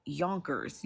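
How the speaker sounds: "Yonkers" sounded out by its spelling; pronounced as spelled. Shown as a demonstration. Defending her way of saying it, "Yonkers" as spelled. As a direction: say "Yonkers" just as it is written. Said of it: "'Cause that's how it's spelled".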